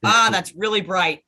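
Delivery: surprised. Real, not acted. Reacting to bright mask light.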